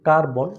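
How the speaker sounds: কার্বন drawn out slowly as কার-বন; slow two-step কার্বন; syllable by syllable. Shown as a demonstration. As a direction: stretch কার্বন over two beats. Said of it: "দুইবার দুইটা step নিতে হয়".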